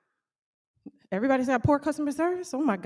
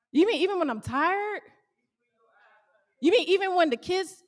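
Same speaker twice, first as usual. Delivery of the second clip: mock incredulous complaint, pitched up at the end; 3 semitones higher than usual. Employee questioning having to do it every time, incredulous. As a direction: play the put-upon worker protesting. Mock objections of a tired worker.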